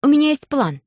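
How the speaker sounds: звонкий детский голос, заметно выше; бойко, по-девчачьи; девочка Алиса. Acted. Голос Алисы. (Алиса, высоким детским голосом)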